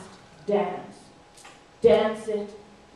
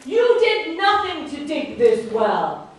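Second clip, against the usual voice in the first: stern king; 4 dB louder than usual. Acted. Outraged king judging the thief before all animals. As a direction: pronounce a grave sentence.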